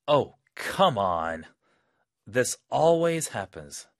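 annoyed commuter; exasperated. Acted. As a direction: complain about the late train. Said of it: "그런 상황에서".

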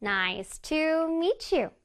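"Nice to meet you" drawn out note by note; very slow, sing-song "Nice to meet you"; piano-like intonation. Shown as a demonstration. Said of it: "내 몸이 마치 피아노가 된다고".

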